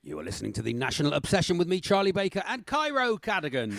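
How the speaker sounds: dramatic continuity announcer; radio serial announcer. Acted. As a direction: introduce the next thrilling episode.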